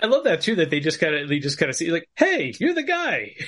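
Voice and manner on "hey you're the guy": high, slow, laughing hey; chuckling imitation of a casual hello; laughing mock greeting. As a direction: greet him through a laugh, drawn out.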